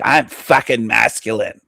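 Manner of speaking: lightly put-on tough-guy voice; mock masculine posturing. Reactor mocking the YouTuber's macho background, mock masculine posturing. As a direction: imitate his macho act, lightly. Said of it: "make it look like".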